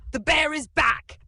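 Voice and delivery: very high, loud alarmed shout. Acted. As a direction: yell that the bear is back. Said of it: "Grandpa shouted".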